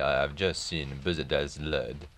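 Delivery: put-on light French accent, "just" lifted; faint French lilt, rising at the end; French accent like an old-time French singer's. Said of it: "unable to sustain the French accent".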